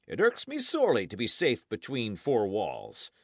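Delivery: animated knight airing his troubles; a hint of a hearty, emphatic lord; lightly voiced knight. Knight confiding in his ward, lightly voiced and emphatic.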